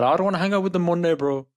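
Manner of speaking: mimicking youths with an accidental Canadian twang; Canadian-tinged imitation; Canadian-sounding accent. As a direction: quote it in a loose Canadian accent. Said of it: "why are you Canadian accent".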